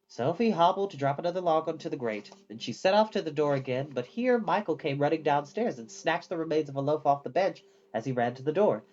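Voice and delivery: usual speaking voice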